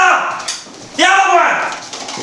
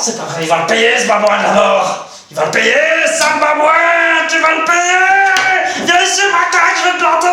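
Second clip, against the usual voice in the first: mock angry threats. Rescuer threatens the baboon.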